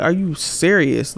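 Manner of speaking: acted-out "is this for real?"; dumbfounded. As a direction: draw it out in retold disbelief. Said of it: "I was so dumbfounded".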